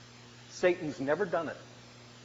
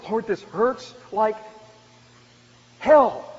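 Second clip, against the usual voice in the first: anguished prayer; 3 semitones higher, 7 dB louder, slower than usual. Acted. Voicing a hurting believer's prayer.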